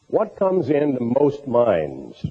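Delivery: unhurried question, spaced out, with "most minds" given weight; slow, measured question. Real, not acted. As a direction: ask "what comes into most minds" slowly and deliberately. General question, then turned on listeners.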